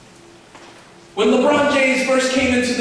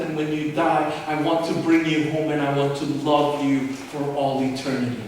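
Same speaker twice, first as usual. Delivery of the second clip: tender plea; 5 semitones lower, 3 dB quieter than usual. Acted. God's voice turns tender.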